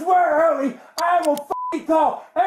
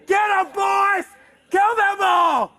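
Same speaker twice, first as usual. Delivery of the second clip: rallying shout; 3 semitones higher, slower than usual. Real, not acted. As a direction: call out to the crowd. Rallying imagined gang.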